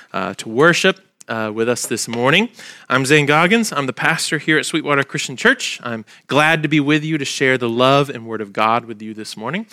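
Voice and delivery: stuffy nose from allergies; talking through a blocked nose. Real, not acted. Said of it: "My voice sounds a little bit like I'm holding my nose".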